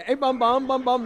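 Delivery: high teasing nickname call. Retold or imitated. Burke teasing his son.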